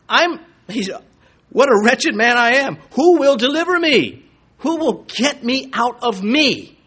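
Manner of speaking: high, loud anguished plea; Paul crying out in despair, high and loud. Acted. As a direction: cry out like a desperate apostle. Voicing Paul's anguish.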